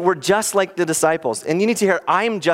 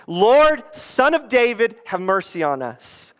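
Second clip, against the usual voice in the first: acted plea; 7 semitones higher than usual. Acts blind men calling on Jesus.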